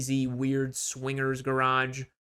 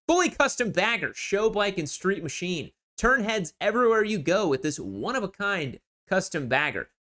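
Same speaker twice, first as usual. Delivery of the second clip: lightly hyped ad-copy read; sales listing read; 3 semitones higher than usual. Acted. Seller pitching a custom bagger, mildly hyped ad read.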